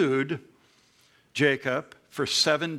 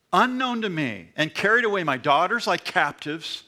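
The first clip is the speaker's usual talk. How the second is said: aggrieved Laban; 2 semitones higher than usual. Acted. Laban confronts Jacob, read aloud.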